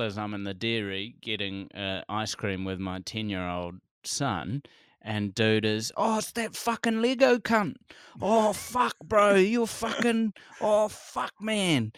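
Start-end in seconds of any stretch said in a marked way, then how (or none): 6.0-11.9 much higher, hammed-up lairy bloke yelling abuse; rowdy stranger. Retold drunk stranger abusing her.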